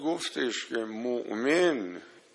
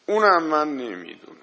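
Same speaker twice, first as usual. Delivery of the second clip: louder and quick, firm; emphatic admission; 4 dB louder, faster than usual. Real, not acted. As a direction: declare it fast and loud. Preacher admits not knowing.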